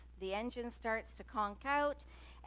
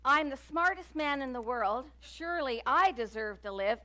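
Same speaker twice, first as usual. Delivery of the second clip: louder, proud shout of a lawyer; boastful yell; 3 semitones higher, 6 dB louder than usual. Retold or imitated. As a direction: yell it like you're sure you've earned it. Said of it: "and he yells".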